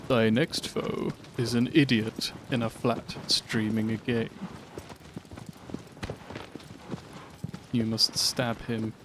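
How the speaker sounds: slow, lightly voiced mock-solemn deity; a hint of an ancient god, drawn out slowly; Dormin impression. Streamer mock-voicing Dormin's next-foe instructions, slow and solemn. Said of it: "where you voice Dormin".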